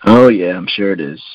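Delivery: dry, knowing tease; sarcastic. Real, not acted. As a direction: say it with a wry smile. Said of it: "Humble brag".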